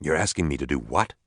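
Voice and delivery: understated disbelief from a doctor; incredulous. A narrator's reading. Doctor answers an outlandish request, mildly incredulous. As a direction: question it with mild incredulity. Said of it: "an incredulous Doctor Robert Turner said".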